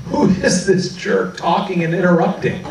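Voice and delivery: mock-indignant classmates, laughing through it; amused imitation of offended students; laughing mock scorn. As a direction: sneer at the intruder while giggling.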